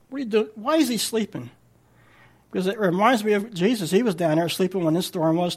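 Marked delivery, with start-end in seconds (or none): 0.1-1.5 a hint of alarmed sailors. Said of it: "he goes".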